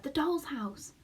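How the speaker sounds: hushed, breathy whisper. A narrator's reading. Homily whispers to the boy.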